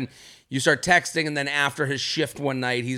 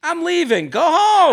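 squeaky high bossy order; high mock shout; 13 semitones higher, 7 dB louder than usual. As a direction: shoo him out in a high yell. Voicing her kicking him out.

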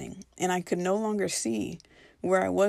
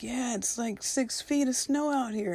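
higher voiced visitor; 6 semitones higher than usual.

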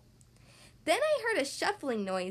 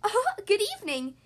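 high, loud, fussy greeting; high monster voice; 6 semitones higher, 4 dB louder, faster than usual. A narrator's reading. Second monster greets the child from under the bed, high voice. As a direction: greet brightly in a high-pitched voice. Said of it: "he said in a high voice".

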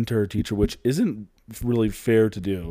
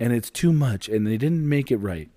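whiny crying voice. Retold or imitated. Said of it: "this is her in her, like, whiny, crying voice".

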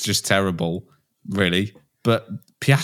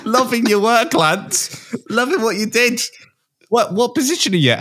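higher, laughing mock praise; mock Alonso cheer; 13 semitones higher than usual. Alonso cheering Lance over team radio, hammed-up. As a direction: gush over Lance like a bored teammate.

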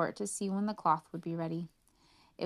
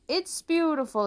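much higher, louder gush; exclaiming; 9 semitones higher, 6 dB louder than usual. Acted. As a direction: gush over nothing. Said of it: "they exclaimed".

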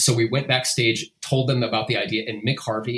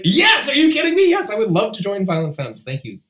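high, loud, thrilled yes; excited shout; 11 semitones higher, 6 dB louder than usual. Retold or imitated. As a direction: burst out with delight. Thrilled reply to band invite.

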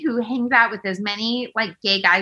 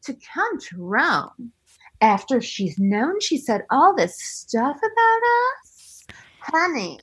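dramatic confessional; 3 semitones higher, slower than usual. Retold or imitated. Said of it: "confessional being like".

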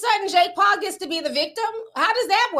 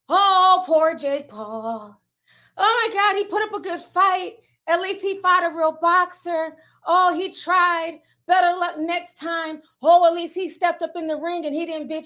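mock crying sympathy; 3 semitones higher than usual. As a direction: imitate fans cooing excuses for a loser. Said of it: "there was some people crying online".

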